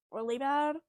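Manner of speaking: loud burst on bad; emphatic. Real, not acted. Ranting about the movie, loud emphasis. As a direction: punch out the word bad. Stressing how bad Tearsmith was.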